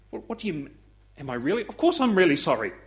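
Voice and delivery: mock indignant surprise, mildly played; acted surprise. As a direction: feign hurt innocence when questioned. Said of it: "And then you act surprised".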